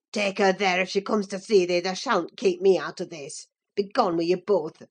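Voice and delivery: low, rough, furious lad; furious Yorkshire lad. Acted. Earnshaw drives Linton and Cathy away, low and furious. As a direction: throw them out in a rage.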